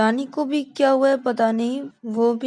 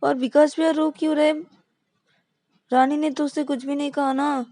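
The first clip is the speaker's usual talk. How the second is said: higher, fretful confusion; can't make sense of it, exasperated; baffled; 7 semitones higher, 4 dB louder than usual. Acted. Ravi baffled by both crying. (उलझन में ऊँचे सुर में)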